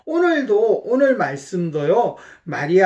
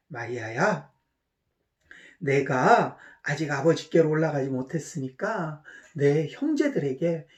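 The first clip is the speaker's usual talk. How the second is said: gentle Jesus; 5 semitones lower, 5 dB quieter than usual. Acted. Jesus speaks to Mary gently.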